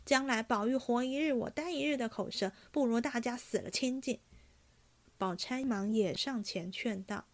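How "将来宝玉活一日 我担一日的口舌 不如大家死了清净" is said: fast, heated outburst; yelling. Acted. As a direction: spit it out, fed up and cornered. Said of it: "嚷道".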